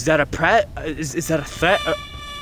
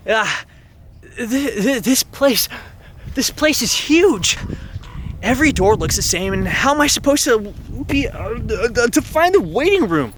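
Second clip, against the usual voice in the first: flustered heroine; 6 semitones higher than usual. Acted. Lost heroine frets over the endless identical doors in a high voice. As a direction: gape at the huge mansion, fretting.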